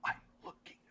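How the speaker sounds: slow, voiceless, urgent whisper; master whisperer. Acted. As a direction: whisper each phrase slowly, barely audible.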